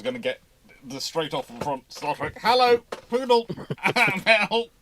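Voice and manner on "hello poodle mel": high sing-song hello to the dog; pet greeting. Real, not acted. Host greets poodle pushing into the shot, high and cooing.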